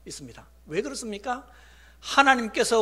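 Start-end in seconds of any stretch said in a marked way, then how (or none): none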